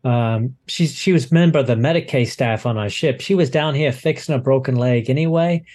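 lightly voiced, hesitant crewman reporting; flustered docking supervisor. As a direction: stumble through a report, relieved at the end.

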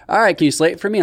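high-pitched imitation of a casting director; mock casting director. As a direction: put on a high, officious audition voice. Acted casting director in retold audition.

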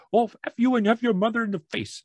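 very high, insulting Jamaican caller; heavy Jamaican accent. Retold or imitated. Caller cursing before hanging up, heavy Jamaican accent. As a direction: imitate a Jamaican caller's parting curse. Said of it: "classy accent".

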